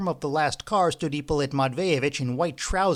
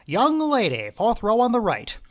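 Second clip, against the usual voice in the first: higher, louder auctioneer call; 8 semitones higher, 4 dB louder than usual. A narrator's reading. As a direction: call out to the clerk. Auctioneer calling the clerk.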